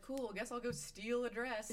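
mock Jenny. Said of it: "And Jenny's like".

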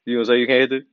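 a lightly voiced sly dig at the rich man; mock-sly Joe Rogan egging on; sly tease. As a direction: coax him slyly, teasing. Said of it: "he pulls a little sly when he's like".

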